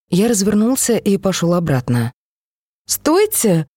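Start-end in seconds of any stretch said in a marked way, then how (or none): 2.9-3.7 put-on high sharp cry of a child; girl's shout. A narrator's reading. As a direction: call them back, high. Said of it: "выкрикнула девчушка". (детский выкрик, высоко)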